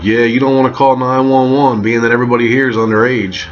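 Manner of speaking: lightly voiced host talking someone down; party host's warning. Party host warning against calling nine one one, emphatic warning.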